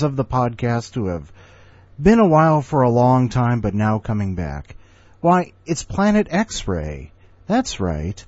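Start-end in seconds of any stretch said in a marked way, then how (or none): 5.2-8.2 grand announcement. Real, not acted. Announcing the next guest.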